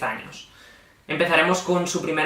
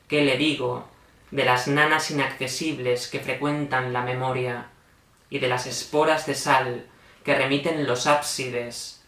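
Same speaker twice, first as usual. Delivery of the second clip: measured poetic reading with falling cadences; solemn refrain of unanswered questions; poem recitation. Acted. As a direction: recite each question gravely, pausing between verses.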